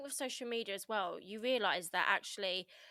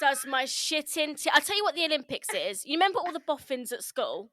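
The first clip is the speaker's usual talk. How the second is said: raised, exasperated venting; worked-up and louder, airing a pet hate; comic angry rant; 4 semitones higher, 6 dB louder than usual. Real, not acted. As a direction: rant with indignation, half in jest. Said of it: "Angered. So I'll try".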